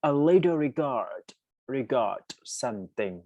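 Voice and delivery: reads each word very slowly and clearly; slow dictation. Shown as a demonstration. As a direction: spell it out for students, very slow. Teacher reads test item slowly. (อ่านโจทย์ช้าๆ ชัดถ้อยชัดคำ)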